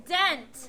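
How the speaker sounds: "Dent" said firmly with a short e; crisp teacher's model of "Dent", vowel as in bed; model pronunciation. Shown as a demonstration. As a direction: say "Dent" for pupils to copy, clear eh. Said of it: "So repeat after me".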